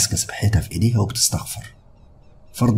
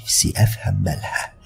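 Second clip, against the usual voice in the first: hushed whisper to her mother. Acted. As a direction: whisper it so grandma won't hear. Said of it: "وأنا بهمس". (همس)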